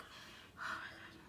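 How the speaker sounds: imitated sigh. Imitating the upset teacher at table.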